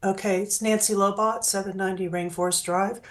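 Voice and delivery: hoarse from a bad cold; raspy, getting over a cold. Real, not acted. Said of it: "Excuse my voice, I'm getting over a pretty bad cold".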